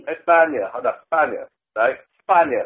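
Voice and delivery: Espagne said close to the French; Chinese-style Espagne. Shown as a demonstration. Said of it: "Người Tàu họ đọc rất là đúng".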